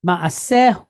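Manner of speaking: "Ma'asehu" with the middle "se" stressed. Shown as a demonstration. Teacher models the Hebrew word for learners, middle-syllable stress on "Ma'asehu". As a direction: lean on "se" in "Ma'asehu". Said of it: "stress the word in the middle".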